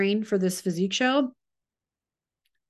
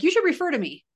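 mock vague ask; 9 semitones higher, 4 dB louder, faster than usual. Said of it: "Don't just be like".

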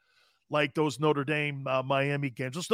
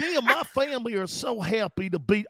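mock Cajun accent; 3 semitones higher than usual. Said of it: "Cajun accent".

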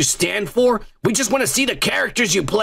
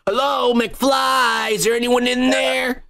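Biff quote voice; 4 semitones higher, slower than usual. Retold or imitated. Quoting Back to the Future.

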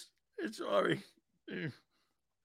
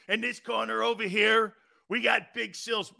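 ring announcer; 3 semitones higher than usual. Acted. Acted wrestling ring introduction.

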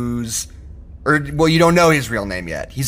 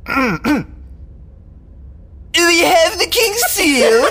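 hammed-up fantasy bard accent; made-up Mysterian accent; 14 semitones higher than usual. Minstrel asks the party about the seal, in a silly invented accent. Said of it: "What accent is that supposed to be?".

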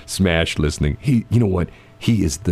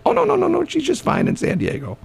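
high-pitched and airily unbothered; breezy high dismissive voice. Retold or imitated. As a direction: brush it off, light and high. Voicing a defender of the mayor.

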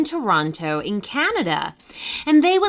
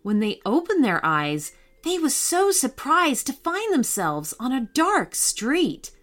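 put-on lively storybook reading for kids; story narration. A narrator's reading. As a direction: read it like a bedtime adventure.

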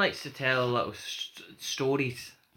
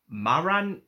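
put-on Geordie accent; slower than usual. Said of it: "I'm hamming up my Geordie accent".

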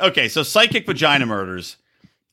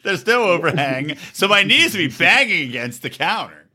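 mocking repeat. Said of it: "It sounds like you're describing your sex life".

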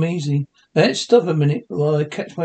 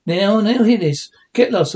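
loud angry; 3 semitones higher, 4 dB louder than usual. Acted. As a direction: bark the order out.

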